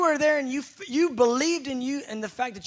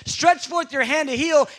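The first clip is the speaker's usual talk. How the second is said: passive prayer; 5 semitones higher, 5 dB louder than usual. Shown as a demonstration. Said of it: "what we say is".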